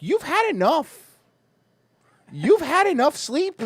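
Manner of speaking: body's voice. Retold or imitated. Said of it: "my body at five thirty was like".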